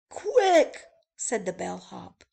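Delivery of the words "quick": urgent. Acted. Fleeing spiders.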